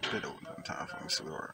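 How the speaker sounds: voice sunk low into a breathy near-whisper. Retelling what a man said to a woman by a car, dropped low voice. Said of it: "You heard the way my voice dropped?".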